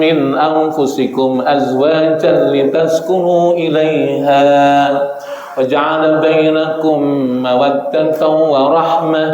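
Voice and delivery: slow, drawn-out chanted tilawah; Quran recitation. Acted. Preacher reciting the wedding verse, slow chanted tilawah. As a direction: chant the verse slowly, stretching the vowels.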